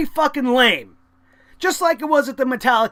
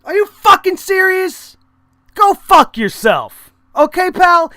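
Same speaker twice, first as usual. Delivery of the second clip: retold angry comeback; 5 semitones higher, 6 dB louder, slower than usual. Retorting to the rude fan.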